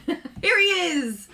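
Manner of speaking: high, loud, drawn-out announcement; excited welcome. Real, not acted. Host announcing the rescuer bringing her charger, excited welcome. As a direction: hail the rescuer's arrival with delight.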